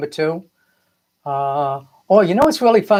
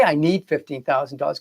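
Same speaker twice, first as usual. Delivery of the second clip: softer, a quiet anxious plea of need; needy lack framing; 4 dB quieter than usual. Shown as a demonstration. Coach showing clients the wrong way, voicing the lack. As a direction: say it like you're short of money. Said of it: "I wouldn't even say".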